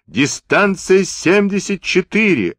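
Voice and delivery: high-pitched call in the heat of battle; battle yell. A narrator's reading. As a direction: yell the range out, pitch well up. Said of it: "орал он ещё в угаре боя". (азартный крик в угаре боя)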